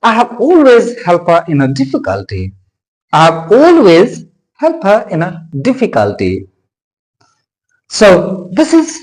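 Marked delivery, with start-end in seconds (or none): 0.0-2.5 "always", "helped" and "difficulty" made prominent, the small words lighter; stressed content words. Shown as a demonstration. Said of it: "Stress this word". 3.1-6.5 teacher's read-out punching "always", "helped", "difficulty"; stressed content words. Shown as a demonstration. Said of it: "Stress this word".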